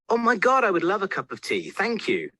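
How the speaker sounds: high, excited gush of thanks; a burst of eager delight, pitched high; delighted acceptance. Acted. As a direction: jump at the offer of tea. Eager yes to tea.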